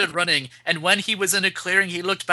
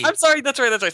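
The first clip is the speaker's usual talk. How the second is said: higher squeaky put-on voice; wrong voice; 7 semitones higher, much faster than usual. Reader accidentally using the silly voice, higher squeak. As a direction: slip into the squeaky character by mistake. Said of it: "Sorry, wrong voice, wrong voice".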